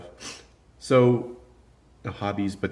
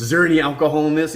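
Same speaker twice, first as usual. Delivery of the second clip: loud, fast, raised-pitch question; mimicked demand; 8 semitones higher, 9 dB louder, much faster than usual. Guy holding someone's water questions the worker, mimicked demand. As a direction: fire it off as an agitated customer.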